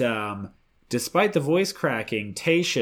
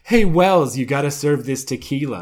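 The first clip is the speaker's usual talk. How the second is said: pushy salesman; 3 semitones higher, 7 dB louder than usual. Retold or imitated. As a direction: shout it like a hawker. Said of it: "This is the perfect place to do it".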